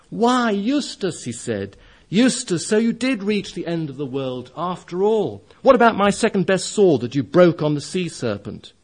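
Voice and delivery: high, loud, delighted greeting; astonished joy. Acted. Caspian greets Eustace in Aslan's country, joyful and astonished. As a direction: Caspian greets an old friend, amazed. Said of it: "He gave a great laugh of astonished joy".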